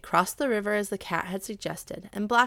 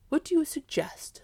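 higher, gruff question; dog asking; 8 semitones higher, 5 dB louder than usual. Acted. Dog asks the cat for a plan, gruff. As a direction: ask it as the eager dog.

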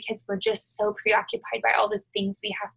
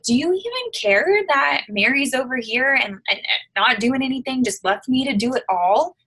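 higher, pleading complaint to Jesus; frustrated Martha; 4 semitones higher, 3 dB louder than usual. Retold or imitated. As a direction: whine it like an overworked hostess. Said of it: "I'm adding my own inflections here".

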